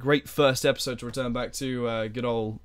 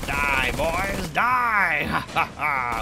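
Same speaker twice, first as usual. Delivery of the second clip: playful villain cry with staged laugh; hammed-up evil glee; mock villain gloating; much slower than usual. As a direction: draw out the kill cry, then cackle. Gloating while attacking enemies.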